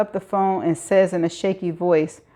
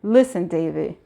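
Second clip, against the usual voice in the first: soothing; 2 semitones lower than usual. Acted. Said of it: "the soothing voice".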